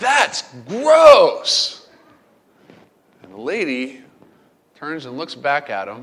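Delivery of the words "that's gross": put-on very high, shrill, very loud blurted kid's yell. Retelling a child in a store line yelling out: imitating a kid yelling. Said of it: "and he yells out".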